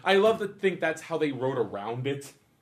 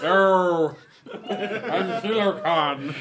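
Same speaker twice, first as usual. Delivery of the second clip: megalomaniac rant; 4 dB louder, much slower than usual. Pretend. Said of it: "in one of his jars".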